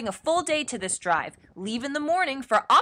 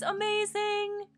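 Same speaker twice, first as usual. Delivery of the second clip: drawn-out amazing; 9 semitones higher, 5 dB quieter, slower than usual. Acted. Drawn-out payoff word.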